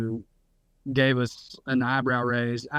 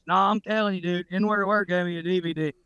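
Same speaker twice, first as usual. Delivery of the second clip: matter-of-fact; 3 semitones higher than usual. Retold or imitated. Redneck assuring a friend about his source, matter-of-fact. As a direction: insist as if it were ordinary fact. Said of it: "he said it so matter of factly".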